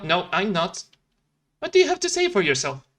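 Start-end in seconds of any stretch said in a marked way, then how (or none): 1.6-2.9 much higher, fast indignant scold; a tiny handyman tearing into his friend; scolding Felix. Acted. Felix scolding Ralph, high fast indignant.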